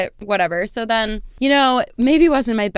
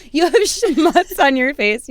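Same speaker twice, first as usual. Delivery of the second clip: slow, slightly raised mock correction; smug comeback; 4 semitones higher, 3 dB louder than usual. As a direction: savour the insult. Her comeback to the guy.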